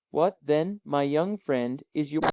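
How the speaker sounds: even, composed uncle asking gently; calm uncle. Acted. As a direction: soothe the frightened nephew. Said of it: "he said in his calmest manner".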